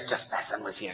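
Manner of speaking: soft whisper in her ear; Jesus whispers to the woman, teasing. Retold or imitated. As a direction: whisper it playfully. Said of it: "just whispers in her ear".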